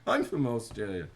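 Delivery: loud imitation of an Australian accent; Jazza. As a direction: protest as an Aussie, accent laid on thick. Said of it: "And he goes".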